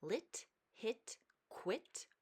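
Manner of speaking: numbered words read one by one with pauses; slow school dictation. Shown as a demonstration. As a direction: read the numbered list for the class. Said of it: "Let's read".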